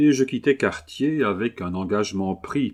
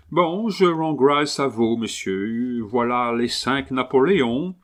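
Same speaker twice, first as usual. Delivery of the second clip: Englishman's ceremonious French thanks; English accent; 3 semitones higher than usual. Acted. Englishman paying for the dog, English accent. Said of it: "l'accent anglais avec lequel avaient été prononcées les dernières".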